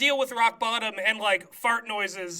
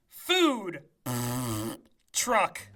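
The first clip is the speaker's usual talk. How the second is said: fart-noise pause; 8 semitones lower, 4 dB quieter than usual. Shown as a demonstration. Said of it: "Give it to me one more time".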